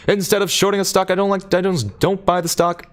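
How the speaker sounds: high, loud auctioneer patter. Pretend. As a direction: rattle it off like an auctioneer. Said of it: "read chat like an auctioneer".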